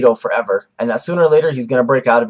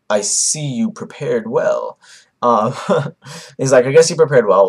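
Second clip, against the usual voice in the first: Madara; slower than usual. Retold or imitated. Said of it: "He literally goes like this".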